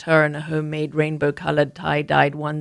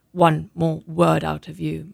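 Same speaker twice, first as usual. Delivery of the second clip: warning; slower than usual. Acted. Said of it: "Mum warned".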